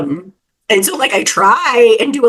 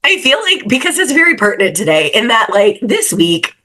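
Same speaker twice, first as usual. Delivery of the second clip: cartoon character voice. Real, not acted. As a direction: voice changed by a cold. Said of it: "I sound like a cartoon character. I'm sick".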